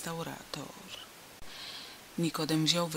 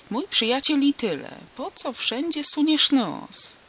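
cutting in loudly; 10 semitones higher, 7 dB louder than usual. A narrator's reading. Harmonist scolds Franek for prying, loud rebuke. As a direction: shut a nosy friend up. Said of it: "wzmieszał się Ambroziak".

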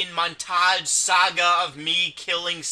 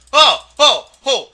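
startled exclamations; 7 semitones higher, 11 dB louder than usual. Real, not acted. Sudden surprise exclamations.

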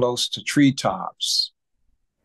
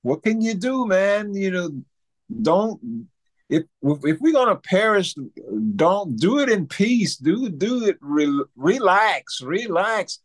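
retold urgent calming; 6 semitones higher than usual. Calming down a panicking nephew.

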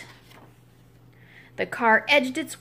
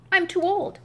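put-on old goat voice; 8 semitones higher than usual. Goat refusing to push.

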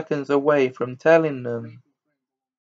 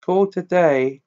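lightly voiced news bulletin; newspaper report read; 2 semitones higher than usual. A narrator's reading. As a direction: read it out like a headline story. Reads newspaper cutting aloud.

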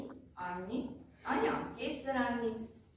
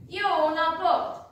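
loud, slow call across the yard; 6 semitones higher, 8 dB louder, slower than usual. A narrator's reading. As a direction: call out a greeting to an empty house. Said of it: "Kiáltott még egyet".

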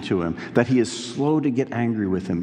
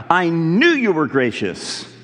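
raised, higher voice of an angry prophet; mock mad Jonah; 5 semitones higher, 3 dB louder than usual. Preacher voicing Jonah's anger at God, a mock-angry complaint. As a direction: throw the words back at God like an accusation. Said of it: "Like somebody being mad about that".

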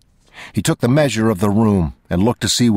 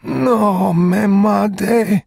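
very slow, much higher, louder crying plea; desperate plea; 4 dB louder, much slower than usual. Acted. Dying man crying out to Chigurh, much higher and louder. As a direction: cry out the plea as if begging for life.

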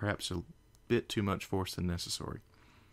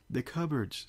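yelling; 6 semitones higher than usual. Acted. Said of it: "Spike yelled back".

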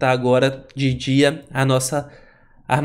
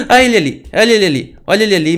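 startled gasp; 5 semitones higher, 6 dB louder, faster than usual. Real, not acted. Spots the Enderman.

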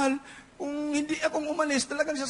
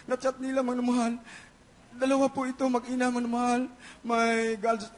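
ordinary talk

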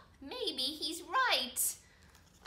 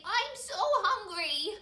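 drawn-out, higher-pitched hungry complaint; hammed-up "so hungry"; dramatic hunger; 5 semitones higher, 4 dB louder, slower than usual. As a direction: stretch it out for children to echo. Leads kids in dramatic echo line.

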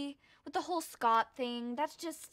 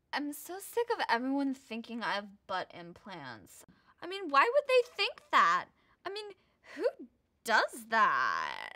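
Kim voice. Retold or imitated. Imitating Kim complaining.

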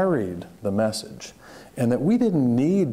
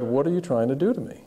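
quicker and higher, pressing the question again; insistent repeated question; 5 semitones higher, faster than usual. Retold or imitated. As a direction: repeat it with more urgency, a bit faster and higher.

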